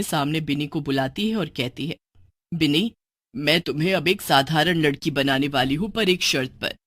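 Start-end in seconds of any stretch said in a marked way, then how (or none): 2.5-6.8 lightly voiced witch mother.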